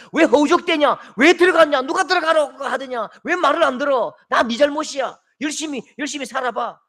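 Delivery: loud, high reproach; scolding. Retold or imitated. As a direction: scold the one who fell in. Religions scolding the struggling person.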